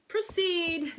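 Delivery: sleepy yawned word; yawning. Acted. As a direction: say it through a yawn. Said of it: "the king yawned".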